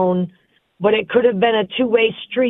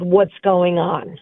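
slow, low and even, no edge; calm question; 3 semitones lower, slower than usual. Retold or imitated. Caller acting out a husband's calm question, slow and gentle. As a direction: ask it slowly and gently, keeping it calm. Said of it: "very calmly and said".

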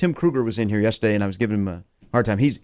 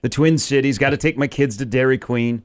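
put-on mild Minnesota accent. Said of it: "Fleck has never gotten a Minnesota accent".

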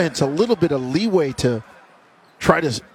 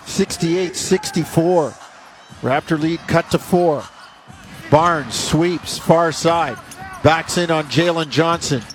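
brisk live game call; play-by-play. Acted. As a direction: call the action as it happens.

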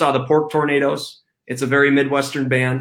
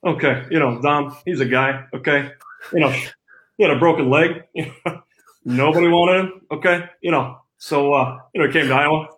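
lightly voiced coach, with a chuckle or two; a hint of a folksy head coach praising his player; answering the host in character as the coach, lightly done; Kirk Ferentz impression. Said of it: "Coach Ferentz, just, uh, run us down".

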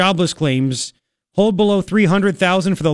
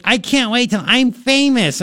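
high, drawn-out mock eagerness; imitated starstruck DJ; 7 semitones higher, slower than usual. Newly hired DJ dreaming of fame, mock eager voice. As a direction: mimic a newcomer dreaming of fame.

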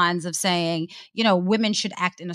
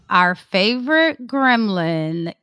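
slow, drawn-out sarcasm; sarcastic; slower than usual. Real, not acted. Co-host introducing a disliked commentator as a favorite, sarcastic. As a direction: stretch the fake fondness out slowly. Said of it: "I am being super sarcastic".

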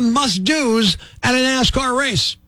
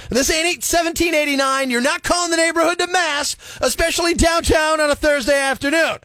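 higher-pitched, indignant radio rant; comic rant; 5 semitones higher than usual. Acted. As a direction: complain with mock outrage. Comic rant about church bells.

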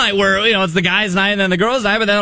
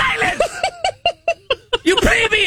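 high, pompous crier voice, laughing through it; haughty town crier voice; 10 semitones higher than usual. Acted. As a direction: scold the peasant like a pompous herald. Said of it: "in the town crier voice".

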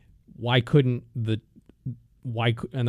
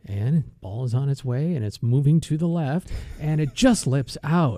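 hushed golf radio play-by-play; golf commentator. Retold or imitated. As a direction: call the putt like a radio golf announcer. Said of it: "You ever heard golf on the radio".

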